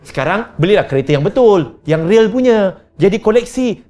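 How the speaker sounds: fond excuse. Retold or imitated. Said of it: "Kita kata".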